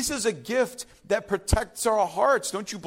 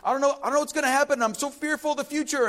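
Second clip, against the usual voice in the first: rushed, rising litany of worries; mock anxious worrier; 3 semitones higher, much faster than usual. Pretend anxious believer listing fears to Paul, rushed. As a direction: rattle off fears faster and faster. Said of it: "Or you can tell people".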